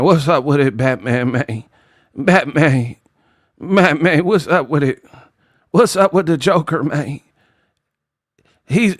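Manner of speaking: a hint of Terrence Howard talking to Batman. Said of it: "put Terrence Howard in Batman".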